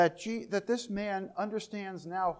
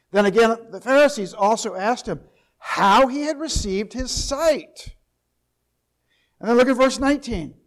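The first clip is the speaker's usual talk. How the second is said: loud, ringing sermon delivery of scripture; fiery pulpit reading; preaching at full force; 3 semitones higher, 12 dB louder than usual. Acted.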